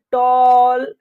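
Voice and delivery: टॉल with a long rounded 'aw'; AW vowel in टॉल. Shown as a demonstration. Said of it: "ए का उच्चारण अ कब होगा". (टॉल में लंबा ऑ)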